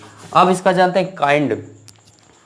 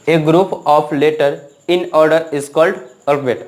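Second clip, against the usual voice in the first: each word spaced out slowly for copying; slow dictation; much slower than usual. Shown as a demonstration. Teacher repeats the dictated definition.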